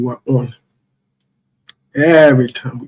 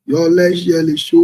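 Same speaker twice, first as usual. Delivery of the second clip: higher rallying call to viewers; 4 semitones higher than usual. Real, not acted. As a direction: hype call with a long tail. Host rallying viewers to share stream.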